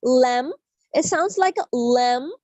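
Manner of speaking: LAMB with tongue curled to the palate; teacher demonstrating "lamb" with a curled L. Shown as a demonstration. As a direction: model the L in "lamb" carefully. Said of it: "ज़बान को अपने तालू की तरफ मोड़ना".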